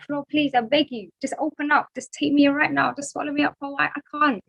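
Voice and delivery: a mild mock plea from an embarrassed student; pleading. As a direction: beg the floor to swallow you. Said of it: "I'm looking at the floor like".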